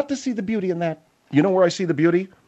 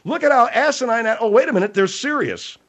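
mock laughing; 4 semitones higher than usual. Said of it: "I almost went".

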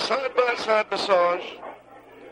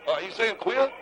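put-on West Virginia accent. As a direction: lean into the West Virginia twang. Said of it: "it's my West Virginia accent".

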